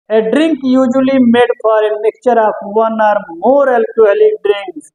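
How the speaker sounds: reads the English clue very slowly; slow dictation. Shown as a demonstration. Teacher reading the quiz clue to students, very slowly. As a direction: spell the clue out word by word for the class.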